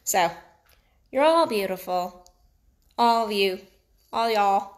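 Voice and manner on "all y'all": mixed New York-Texas drawl on "y'all"; Texas accent. Real, not acted. Coach addressing all her listeners, Texas accent. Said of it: "In my Texas accent".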